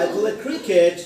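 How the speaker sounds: "I play cricket" falling on "cricket". Shown as a demonstration. Teacher drilling a statement, falling tune on "cricket". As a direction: bring the voice down through "cricket". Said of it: "ভয়েসটা উপর থেকে নিচের দিকে যাবে".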